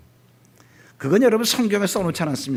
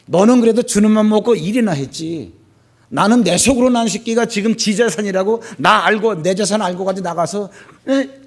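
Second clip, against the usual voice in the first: louder, higher mock rant of a wounded father; angry father; 5 semitones higher, 7 dB louder than usual. Imagined father snapping back at his eldest son, loud and angry. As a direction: vent it like a hurt dad losing patience. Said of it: "이렇게 말할 수도 있잖아요".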